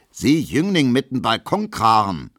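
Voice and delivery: lauter, höherer Schrei; brüllt den jungen Mann wütend an; schreien. A narrator's reading. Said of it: "schreit Gustav Schmelow". (Schmelow schreit Emil auf der Tanzfläche an)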